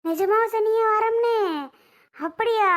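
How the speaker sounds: can't believe he said yes; surprised delight. Acted. Wife thrilled her husband agreed to come, surprised.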